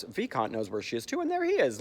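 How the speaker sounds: ordinary talk, nothing marked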